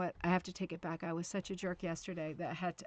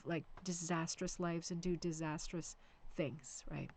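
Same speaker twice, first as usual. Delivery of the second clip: whisper; 5 dB quieter than usual. Real, not acted. Grave aside about neglected kids.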